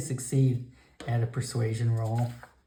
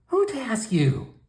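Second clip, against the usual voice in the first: mocking old shaman; 9 semitones higher than usual. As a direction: scoff at his task.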